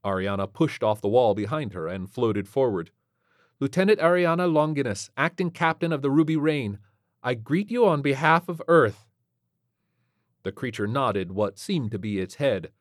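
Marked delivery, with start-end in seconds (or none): 3.6-9.0 lightly voiced officer, pitched higher; formal lieutenant. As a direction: greet the alien officially.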